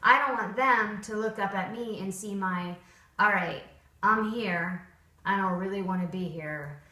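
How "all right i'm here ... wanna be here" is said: reluctant, unenthusiastic mock trainer; half-hearted, dutiful sigh of a voice; bored trainer. Shown as a demonstration. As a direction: sound like you'd rather be anywhere else. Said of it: "I don't want that face on my dog".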